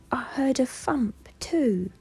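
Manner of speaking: high, slow, hushed little bear; Little Bear's voice. A narrator's reading. Little Bear peeping from behind Old Bear, high and hushed. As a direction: whisper it high like a timid small bear. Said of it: "said Little Bear".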